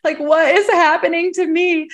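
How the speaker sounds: high, baffled plea to the psychic; high confused what is happening to me; bewildered panic. Retold or imitated. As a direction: pitch up like you're losing it. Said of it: "I was like".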